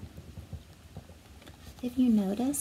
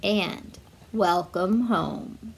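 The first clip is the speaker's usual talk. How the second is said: slow, low jolly Santa greeting; kindly Santa; 4 semitones lower, slower than usual. Acted. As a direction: welcome her like old Father Christmas. Santa welcomes Dasher home.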